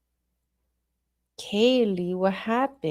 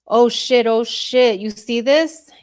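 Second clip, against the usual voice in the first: louder, startled outburst; startled alarm; 3 semitones higher, 5 dB louder than usual. Real, not acted. Streamer spotting something in the footage, startled. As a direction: react to a sudden discovery.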